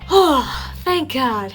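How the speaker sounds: acted sigh of relief; big exhale of mock relief; relieved. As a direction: breathe out, then thankful. Acting out relief after the shots.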